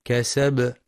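كسب with the final ب released in a small echo; qalqalah on the ba. Shown as a demonstration. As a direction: bounce the closing ب of كسب. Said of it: "الباء في كلمة".

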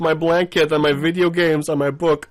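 high, sarcastic fake lament; mock dismay. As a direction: pretend to be devastated, actually delighted. Pretends dismay at being left out.

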